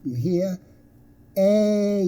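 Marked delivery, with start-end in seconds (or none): 1.4-2.1 higher, held "A" gliding to ee; two-sound diphthong. Shown as a demonstration. Teacher checks learners hear it, "A" drawn out. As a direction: stretch "A" so both sounds show. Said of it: "That's a diphthong".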